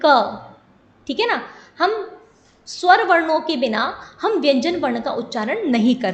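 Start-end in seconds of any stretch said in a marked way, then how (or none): 0.0-0.4 क sounded with an inherent short "a"; teacher demonstrating the syllable क; pronunciation demo. Shown as a demonstration. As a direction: say क alone as "ka". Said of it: "अब हम इसका उच्चारण करते हैं".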